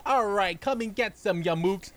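a touch of tough-guy bravado; mock Joey. Joey taunting the mooks, lightly voiced tough guy. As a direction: challenge the thugs, lightly voiced. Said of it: "Joey going".

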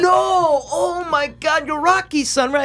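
high-pitched imitation of a surprised lady; astonished store lady. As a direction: gush in a high put-on voice. Voices lady who remembered him.

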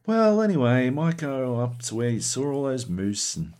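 lightly voiced breezy change of heart; imitated chilled-out friend. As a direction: start high, then ease off casually. Friend suddenly cheerful after challenge ends.

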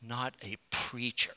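put-on French Canadian accent. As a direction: imitate a dismayed French Canadian wife, softly. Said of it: "she said in her French Canadian accent".

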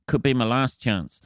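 mock French accent on chance; lightly Frenchify the final word. Joking about leaving Europe, playful French accent. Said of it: "I said that in a French accent".

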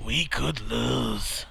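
very slow put-on Aussie voice; mock Australian accent. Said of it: "I don't wanna do that accent".

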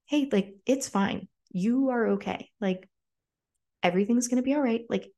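lightly voiced caring girl calming a crying friend; imitating gentle comfort. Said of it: "was like".

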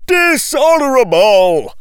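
high, loud outraged cry; cried out. A narrator's reading. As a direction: hurl the word from the crowd. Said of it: "someone cried".

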